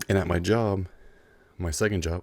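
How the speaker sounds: slightly winded, chewing a cough drop; out of breath. Real, not acted. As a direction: talk around a cough drop, short of breath. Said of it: "I don't know why I'm so out of breath".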